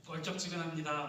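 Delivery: demonstrated Jeolla dialect phrase. Shown as a demonstration. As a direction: say it like a Jeolla local. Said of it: "그런 사람은 전라도예요". (전라도 사투리로)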